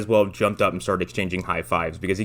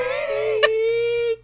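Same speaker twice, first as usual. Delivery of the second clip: thin, high-pitched squeal; imitated crash sound. Podcaster mimicking the film's feeble crash audio, thin high squeal. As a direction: make a tiny, high squeal of a noise. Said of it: "There's like a".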